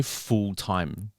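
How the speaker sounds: "full time" slowed, set apart as if quoted; spoken air quotes. Real, not acted. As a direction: stretch "full time" in inverted commas. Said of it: "inverted commas".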